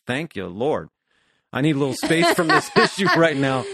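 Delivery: mock-relieved plea breaking into a laugh; laughing relief. Fiance to therapist, half-joking with a laugh. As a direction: playfully beg for a break, chuckling. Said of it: "Most times he's like".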